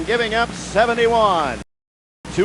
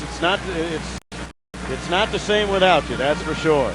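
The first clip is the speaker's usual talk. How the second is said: talking through a mouthful; words round a bite of candy; mouth full; 4 semitones lower than usual. Real, not acted. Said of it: "Don't let him talk with his mouth full".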